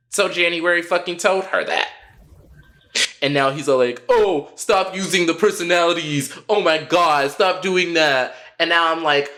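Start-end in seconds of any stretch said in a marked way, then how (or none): 4.1-8.3 mocking whiny Andy. Mocking Andy's complaint.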